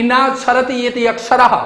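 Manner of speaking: ना क्षरति इति अक्षरः recited like a shloka; teacher reciting the Sanskrit definition; Sanskrit recitation. Shown as a demonstration. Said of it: "परिभाषित किया गया है".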